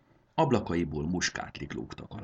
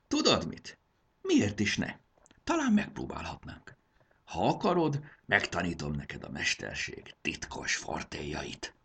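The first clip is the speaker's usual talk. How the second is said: growing enthusiasm. Acted. Conductor decides to train the dragon girl, excited. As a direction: let the idea light you up. Jakab warms to the idea.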